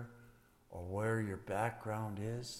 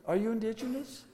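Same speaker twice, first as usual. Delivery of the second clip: higher, amused retelling; laughing repeat; 9 semitones higher, faster than usual. Retold or imitated. Grandfather repeats great-granddaughter's question, laughing. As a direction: laugh through the child's question.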